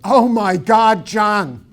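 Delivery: loud, slow cry of sudden dismay; retold panicked outburst; alarmed shout. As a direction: blurt it out, horrified at forgetting him. Realising he forgot a student.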